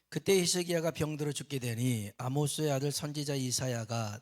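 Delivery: loud, solemn reading of scripture aloud; formal church reading voice. Acted. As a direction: read the verse out to the congregation.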